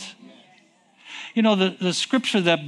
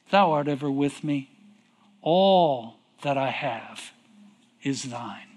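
tender father; 4 semitones lower, 3 dB quieter than usual. Acted. Father's gentle reply.

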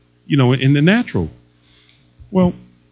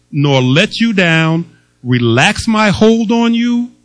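slow, emphatic reading of the promise; 1 preaching scripture; slower than usual. Acted. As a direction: preach each promise deliberately.

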